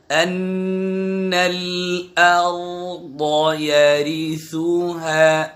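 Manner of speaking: না নি নু আন ইন উন said slowly and separately, each clearly voiced; nun drill. Shown as a demonstration. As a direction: drill each syllable with a pause between. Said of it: "এক আঙ্গুল পরিমাণ ফাঁকে রেখে উচ্চারণ করব". (ধীরে ধীরে প্রতিটি অক্ষর আলাদা করে মশক)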